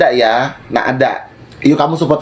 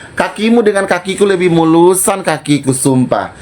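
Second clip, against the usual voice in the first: retold taunt; 3 semitones higher than usual. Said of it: "Gue bilang".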